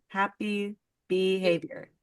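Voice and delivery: slow, deliberate word by word "Happy Behavior"; careful B. Real, not acted. Host naming the company, thinking hard about the B, careful and slow. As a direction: say "Happy Behavior" slowly, minding the B in "Behavior". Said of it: "have to think of the B so much".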